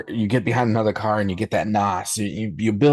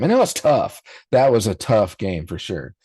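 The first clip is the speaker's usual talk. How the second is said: put-on Southern accent. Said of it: "I just had a Southern accent".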